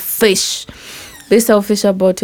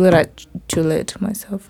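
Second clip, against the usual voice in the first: whisper; 2 semitones lower, 6 dB quieter than usual. Acted. Self-talk list, whispered.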